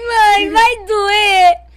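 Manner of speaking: lamento agudo, bem arrastado; sofrendo. Retold or imitated. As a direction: imitar criança chorando de medo da dor. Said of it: "eu sofrendo". (choro encenado, esticando as palavras)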